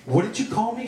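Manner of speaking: high-pitched indignant question; indignant yell. A narrator's reading. Actress challenges her director, indignant yell. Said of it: "she yelled".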